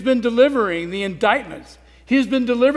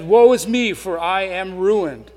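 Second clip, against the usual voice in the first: understated prophet's lament, louder on woe; 4 dB louder than usual. Retold or imitated. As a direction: voice Isaiah's despair, slowing on ruined. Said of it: "Isaiah comes to grips with his sin".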